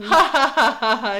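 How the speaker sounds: imitating a hero's mocking laugh; mock evil laugh. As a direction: ham up a villain's taunting laugh. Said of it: "He laughs".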